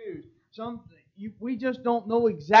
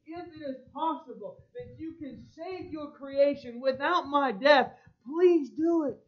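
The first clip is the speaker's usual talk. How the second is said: higher, pleading voice of a man begging; 6 semitones higher than usual. Acted. Preacher voicing Jesus begging his Father to spare him, pleading. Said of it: "begging his Father".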